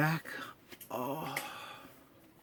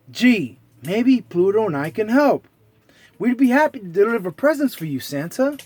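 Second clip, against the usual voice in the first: Mickey voice; 4 semitones higher, 4 dB louder than usual. Acted. Mickey offers help.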